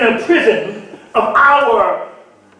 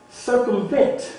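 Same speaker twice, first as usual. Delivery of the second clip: tempting whisper; 10 dB quieter, slower than usual. Acted. Tempting voice urging Jesus.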